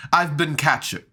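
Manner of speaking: a failed attempt at a put-on character voice, barely off the speaker's own; half-hearted imitation of a fellow player's character; Roger's Talvey voice. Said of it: "I can't do that voice".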